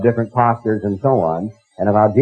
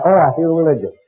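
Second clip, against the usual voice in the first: sarcastic mock piety. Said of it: "you're overcome".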